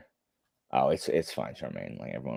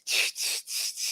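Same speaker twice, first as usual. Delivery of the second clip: repeated hushing noise; 5 dB quieter than usual. Shown as a demonstration. Imitates a noise after "this.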